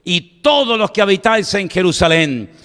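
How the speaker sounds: measured, mildly declamatory oration; preacher lightly voicing Peter's public speech. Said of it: "alzó la voz y les dijo".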